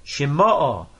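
Shema'o stressed on "ma", not the ending; accent toward the beginning. Shown as a demonstration. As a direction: say Shema'o as she-MA-o, last syllable unstressed. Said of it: "the accent is on the beginning of the word".

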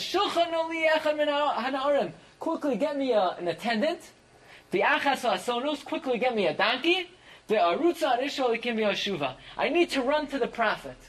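high, pressing voice of a desperate mother; urgent plea. Acted. Mother urging her husband, high and urgent. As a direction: rush the request, she must get there now.

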